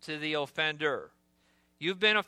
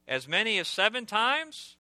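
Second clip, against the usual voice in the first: raised higher, a self-pleased lilting question; proud Peter; 5 semitones higher than usual. Acted. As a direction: ask it like you expect applause. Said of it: "feeling quite impressed of himself".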